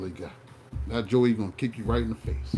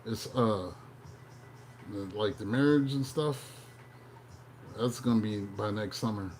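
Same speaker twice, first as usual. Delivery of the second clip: hammed-up horoscope read, slowing on the big news; horoscope reader impression. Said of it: "I was getting my Tony Baker on".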